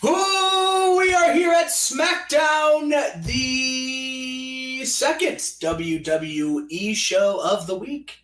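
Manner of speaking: big sung-out opening that falls back to speech; show announcer. Pretend. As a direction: stretch the words out like a ring announcer.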